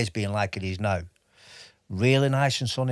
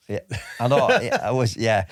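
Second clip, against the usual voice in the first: laughing; 2 semitones higher, 5 dB louder than usual. Real, not acted. Laughing at his bad accent.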